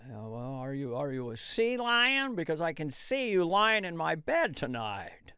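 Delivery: Jimmy Stewart. Retold or imitated. Jimmy Stewart impression pickup line.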